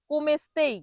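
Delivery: কোমে স্তেই ending in "stei"; wrong-way demo of কোমে স্তেই, "ei" for "ai"; common mispronunciation. Shown as a demonstration. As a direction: say কোমে স্তেই as "kom-estei". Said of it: "অনেকে ভুল করে এটাকে বলে".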